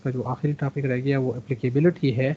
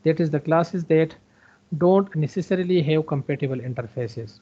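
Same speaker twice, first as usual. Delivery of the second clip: reading a textbook definition slowly; slow, careful read from the book; slow reading aloud; 3 semitones higher, much slower than usual. Shown as a demonstration. Reads textbook line slowly.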